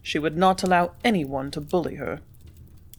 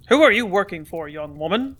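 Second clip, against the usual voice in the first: plain reading voice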